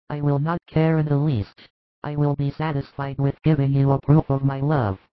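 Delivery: James, ardent disciple. A narrator's reading. James pleading his love to grieving Jesus, hushed and earnest. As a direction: beg him to believe you, hushed and earnest.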